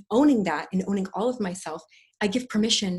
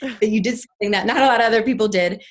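lightly voiced inner self, a bit louder; her scared inner part; 4 semitones higher, 8 dB louder than usual. Her fearful inner part thanking her for the mask, lightly voiced. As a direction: give the protective inner part a light, kind voice. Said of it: "the part of me that was very scared of using my voice came in and said".

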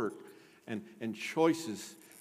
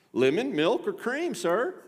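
high, lilting servant offering a list; formal butler; 9 semitones higher, 5 dB louder than usual. Acted. Butler offering Asquith additions to tea, formal butler. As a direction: play a polite butler, voice pitched up. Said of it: "the butler came to him".

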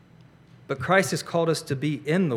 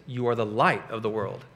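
quoting Jesus; 5 semitones lower, 6 dB quieter than usual. Acted. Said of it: "he stops and he says".

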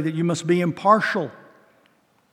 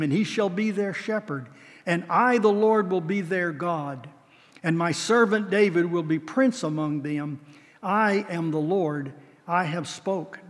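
scripture reading. Acted. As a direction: close the prophecy with gravity. Reads scripture in sermon.

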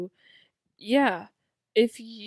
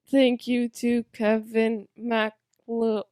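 slow mechanical robot voice; 4 dB louder, slower than usual. Pretend. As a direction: announce it like a monotone machine. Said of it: "not in robot voice".

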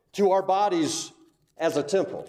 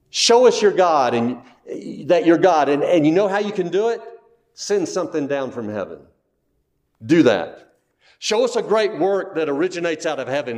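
loud, demanding challenge from the religious leaders; 3 semitones lower, 5 dB louder than usual. Retold or imitated. Religious leaders loudly daring Jesus to prove himself. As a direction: throw the demand at him like a taunt.

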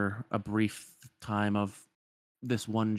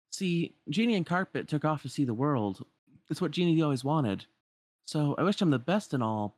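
a touch higher, easygoing hero; lightly voiced wistful Aladdin; 5 semitones higher than usual. Aladdin telling friends about Genie leaving, mildly wistful. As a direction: explain it lightly in a hero's voice.

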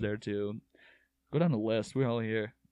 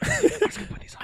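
whispering; 5 dB louder than usual. Pretend. Acting out the pants swap.

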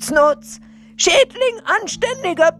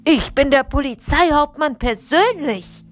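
high-pitched, indignant captain; irate high yell of an official; outraged shout; 9 semitones higher, 4 dB louder than usual. A narrator's reading. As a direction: shout it angrily, pulling rank. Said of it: "schrie er erbost".

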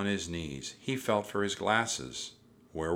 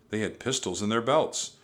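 plain reading voice

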